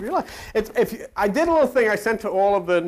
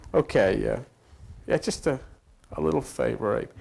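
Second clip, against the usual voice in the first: God voice; 8 semitones lower, 4 dB quieter than usual. Acted. God speaking low to Abe.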